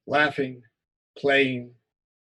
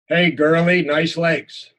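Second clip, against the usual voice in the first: bully's taunt; 6 dB louder, slower than usual. Acted.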